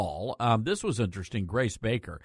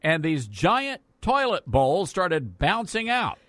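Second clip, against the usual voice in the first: news anchor voice; 5 semitones higher than usual. Acted. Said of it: "your news anchor voice".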